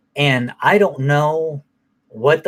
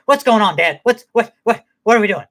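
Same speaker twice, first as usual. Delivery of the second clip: high, louder confused dog voice; excited dog voice; 8 semitones higher, 4 dB louder than usual. Retold or imitated. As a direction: voice the dog, all worked up and confused. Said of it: "Just like".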